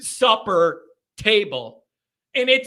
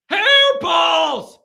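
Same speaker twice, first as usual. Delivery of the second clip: loud, higher disgusted shout; exasperated shout; 6 semitones higher, 5 dB louder than usual. Real, not acted. Comic blaming the cats at dinner, exasperated shout. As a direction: spit out the word in disgust. Punchline exclamation.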